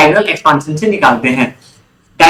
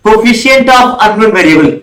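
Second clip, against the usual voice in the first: very slow dictation; 3 semitones higher, 4 dB louder, much slower than usual. Shown as a demonstration. Teacher spelling out the definition.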